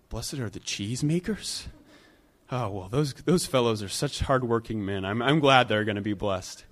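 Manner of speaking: a hint of a silly British accent. Bystander at the back mishearing Jesus, mock British. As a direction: lightly mimic a Monty Python British onlooker. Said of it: "my atrocious British accent impersonation".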